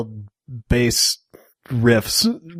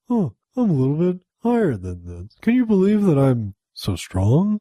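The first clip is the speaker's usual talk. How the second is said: lightly mocked acting voice. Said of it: "acting voice where it's like".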